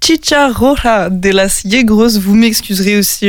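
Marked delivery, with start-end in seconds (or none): 0.0-2.2 slow, careful Spanish-accented read of the band name; radio host's Spanish accent on a band name. Real, not acted. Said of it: "pour mon accent espagnol".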